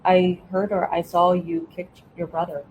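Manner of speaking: even, neutral statement; calm, matter-of-fact delivery; elevator tone of voice. Shown as a demonstration. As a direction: say it plainly, without emotion. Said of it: "say to them in that elevator tone of voice".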